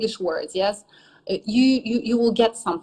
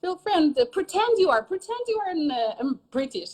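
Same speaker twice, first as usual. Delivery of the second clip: high-pitched, coaxing pep talk; emphatic encouragement; 8 semitones higher than usual. Acted. Teacher telling ashamed students to feel free, emphatic encouragement. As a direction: coax them to loosen up, voice raised high.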